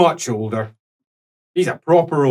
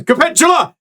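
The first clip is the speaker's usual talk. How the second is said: bellowed name; 14 semitones higher, 5 dB louder than usual. Acted. Old priest bellows a name.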